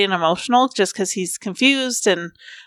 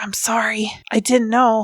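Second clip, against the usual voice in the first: soft whisper. Voicing a kneeling character with tears streaming down his face: whispering. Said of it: "I don't know how you would show whispers".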